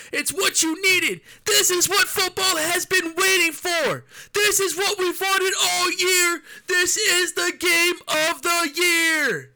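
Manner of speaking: high, loud, slow sportscaster roar; hype announcer. Pretend. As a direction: call it like the biggest game ever. Hyped sportscaster bit after announcer remark.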